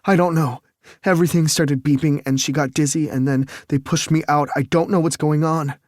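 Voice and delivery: high, loud, shaken pleading; breaking with fear; distraught. Acted. Distraught son explaining collapse.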